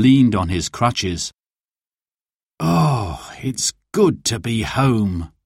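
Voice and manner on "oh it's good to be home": slow, sighing contentment; relieved sigh. A narrator's reading. Dad back from hospital, slow relieved sigh. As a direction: let the words out slowly on a sigh. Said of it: "he sighed".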